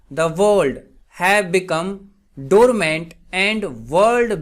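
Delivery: very slow, spaced-out example reading; slow dictation. Shown as a demonstration. Teacher gives students an English translation, slow dictation. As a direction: read it out slowly, phrase by phrase. Reads example sentence slowly.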